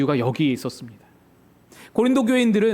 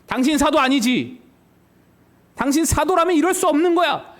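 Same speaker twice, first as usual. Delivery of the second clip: higher, accusing retort, pointed and sure; mock confrontation; 7 semitones higher than usual. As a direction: nail him with the charge. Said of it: "이렇게 막 따지는 겁니다". (바울에게 대놓고 따지는 말투)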